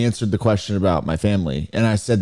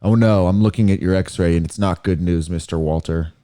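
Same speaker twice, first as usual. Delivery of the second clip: lightly voiced doctor, sinking lower; put-on doctor voice; 5 semitones lower than usual. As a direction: break bad news as a mock doctor. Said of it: "the doctor talks like this now".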